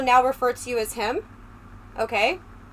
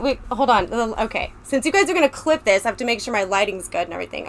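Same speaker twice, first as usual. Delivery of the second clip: ordinary talk, nothing marked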